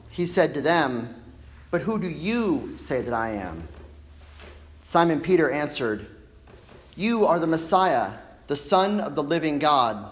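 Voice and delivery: measured, emphatic gospel reading; solemn lectern reading with deliberate pauses; formal scripture reading. Acted. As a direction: proclaim the passage to a congregation, phrase by phrase. Reads the gospel aloud to congregation.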